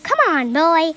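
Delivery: put-on high, loud old-woman yell; grandma yelling. A narrator's reading. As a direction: yell for another spoonful. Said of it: "she yelled".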